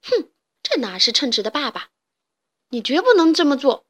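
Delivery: outraged crowd of chicks; indignant protest. Acted. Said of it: "纷纷地打抱不平". (愤愤不平地喊)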